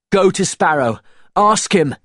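high, loud, insistent demand; urgent shouted order; shouting. A narrator's reading. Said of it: "shouted Will".

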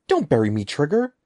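loud, rising desperate plea; terrified plea. A narrator's reading. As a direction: beg in horror. Boy about to be buried.

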